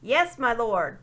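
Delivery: loud, slow bawl; boy bawling into the dwarf's trumpet. A narrator's reading. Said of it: "bawled Eustace into the trumpet".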